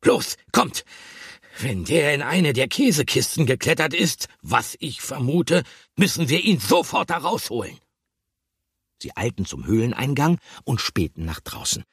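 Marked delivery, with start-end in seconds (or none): 0.0-7.8 much higher and louder, pressing; rally the others to rescue him now; alarmed hamster urging everyone to hurry; urgent call. A narrator's reading. Bertram urges rescue.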